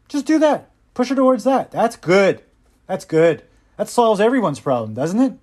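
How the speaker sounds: mock encouragement; sarcastic mock approval. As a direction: cheer it on with sarcasm.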